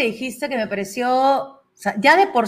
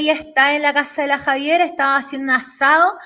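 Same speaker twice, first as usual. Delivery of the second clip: Chilean accent imitation; 3 semitones higher, faster than usual. Host shows off his Chilean accent to Sharoni, fast Chilean accent. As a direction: rattle it off like a Chilean friend gossiping, in Chilean accent. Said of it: "Yo voy a imitar el acento chileno".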